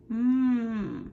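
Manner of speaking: a held hum "Mm"; M sound. Shown as a demonstration. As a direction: hum the M with lips closed. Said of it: "What sound does M make?".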